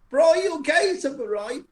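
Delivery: put-on deep Welsh accent. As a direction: say it like a deep-voiced Welsh woman. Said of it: "in a really deep, like, Welsh accent".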